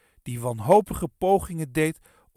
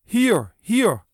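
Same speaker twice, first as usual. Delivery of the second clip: high, loud scolding shout; angry shout; 4 semitones higher, 5 dB louder, slower than usual. A narrator's reading. Bron at the fence grabbing for Kees, shouting. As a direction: shout furious orders at a rascal. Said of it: "schreeuwde Bron".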